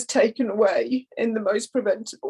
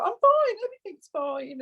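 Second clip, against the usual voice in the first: imitating son; 11 semitones higher than usual. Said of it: "He would be like".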